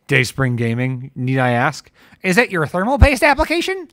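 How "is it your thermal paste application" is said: mock innocent.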